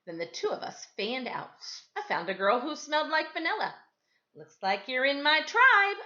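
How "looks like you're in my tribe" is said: chirpy, a bit higher and louder; eager kid chirping a greeting; chirped. A narrator's reading. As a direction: chirp it out like an eager new friend. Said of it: "I chirped".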